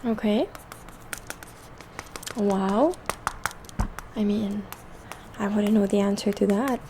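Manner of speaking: gentle half-whispered soft speech; soft spoken voice. Real, not acted. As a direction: speak softly, like a calm spa host. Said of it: "this video is going to be in a soft spoken voice".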